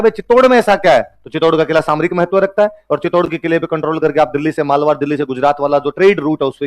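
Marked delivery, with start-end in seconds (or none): 0.0-1.2 high, loud puzzled asking; a student wondering what's special about Chittor; mock student question. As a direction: play the curious student. Imagined student asks question.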